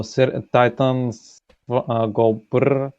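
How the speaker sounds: slow careful repeat; "Titans go brrr" said slowly, brrr drawn out. Shown as a demonstration. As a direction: spell it out slowly for him. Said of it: "repeat again, repeat again".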